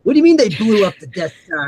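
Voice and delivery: mildly voiced angry emperor; a hint of ranting villain boss; Robot Chicken Emperor. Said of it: "he's pulling quotes from".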